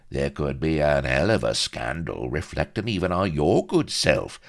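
hint at scandal as a friendly favour; sly blackmailer. Acted. Vladimir hinting at scandal to Pepys, oily and knowing.

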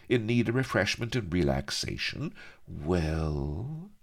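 lightly voiced dreamy coquette; high, musing start into coaxing talk. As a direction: daydream aloud, drawing out the last word. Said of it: "smiled Mistress Bonny dreamily".

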